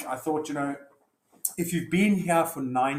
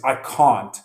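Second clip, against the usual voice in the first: a short loud burst of refusal; sharp refusal; 7 dB louder than usual. Acted. Husband refusing his wife mid-fight, short and loud. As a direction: spit it out, fed up.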